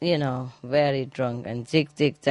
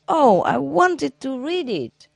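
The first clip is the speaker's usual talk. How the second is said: disappointed husband; 9 semitones higher, 3 dB louder than usual. Acted. Joke, husband complains.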